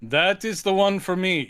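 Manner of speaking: measured put-on British-ish accent; put-on accent for Yorga. Yorga choosing a dog at the pound, lightly put-on British accent. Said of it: "doing an accent for him".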